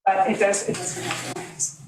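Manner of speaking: fading to a near-voiceless whisper on hurt feelings; voice breaking. Real, not acted. Resident apologizing to the board, voice breaking with emotion. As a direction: let the voice give out as she admits the hurt. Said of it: "I'm sorry if I'm emotional".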